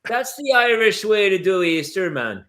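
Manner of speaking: a sloppy put-on Irish accent drifting Jamaican; joking Irish brogue, slipping into Jamaican; mock Irish accent. Friend riffing about Easter in mock Irish accent. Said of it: "is that Irish or Jamaican".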